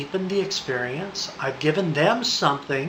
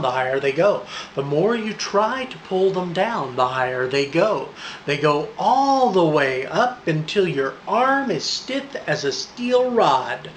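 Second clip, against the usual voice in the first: rhythmic, emphatic trance patter; hypnotic suggestion; 3 semitones higher than usual. Shown as a demonstration. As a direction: chant the suggestions so they build. Demonstrates balloon suggestion patter.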